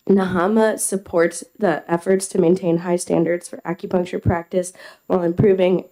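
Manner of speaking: normal talking voice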